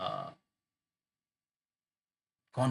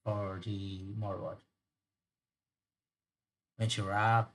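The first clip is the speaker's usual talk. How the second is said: badly faked Irish narration; amateur Irish storyteller; bad Irish accent; 3 dB louder than usual. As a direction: attempt an Irish brogue for the tale. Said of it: "I'm doing a really bad Irish accent".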